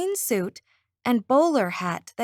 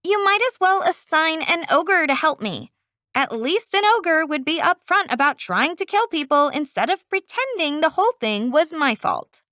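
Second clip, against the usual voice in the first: terse; 3 semitones higher than usual. Acted. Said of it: "spoke into her phone tersely".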